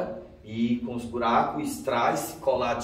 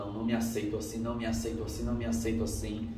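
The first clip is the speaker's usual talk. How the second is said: a hint of hushed despair, repeated softly; 2 semitones lower, 6 dB quieter, faster than usual. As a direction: murmur it in quiet anguish. Refusing to accept himself.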